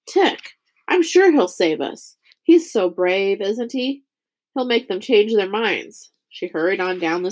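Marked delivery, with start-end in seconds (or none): 0.1-6.1 a touch of breathless hero worship; excited girl. Acted. Lizzie gushing about Tick.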